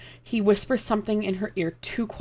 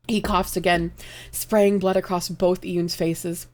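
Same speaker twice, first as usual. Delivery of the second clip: choked up, slow; slower than usual. Real, not acted. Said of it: "this is making me cry".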